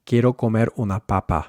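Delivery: Spanish with English puffed p in papa; English-accented Spanish, aspirated p; heavy English accent. Shown as a demonstration. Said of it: "more heavily accented English pronunciation".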